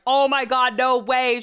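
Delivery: put-on excited astonishment; imitated amazement. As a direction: voice a friend's thrilled shock. Retells friend's amazed reaction.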